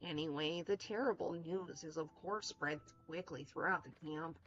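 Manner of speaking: lightly voiced camp owner; measured, lilting character read; preferred character voice. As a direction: play a mild-mannered camp owner, lightly. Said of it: "I like him better like this".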